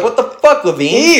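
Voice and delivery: high, incredulous mock shout; outraged fighter. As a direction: voice the fighter turning on the ref. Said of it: "Matt Brown's like".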